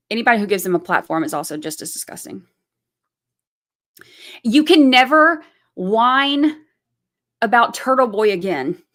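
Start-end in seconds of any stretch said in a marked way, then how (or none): 4.4-8.8 scolding. Real, not acted. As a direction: lean hard on every word. Scolding harassers directly.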